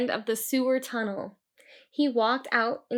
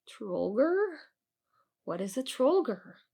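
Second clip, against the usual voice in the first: eerie voice; 3 semitones higher than usual. Acted. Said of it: "asked with an eerie voice".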